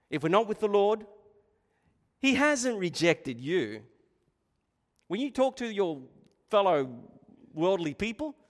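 ordinary talk, nothing marked

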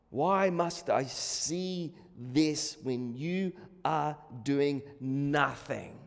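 slow, low, soft lament; despairing question. Acted. Prophet asks God why he does nothing, despairing. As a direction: plead wearily, word by word.

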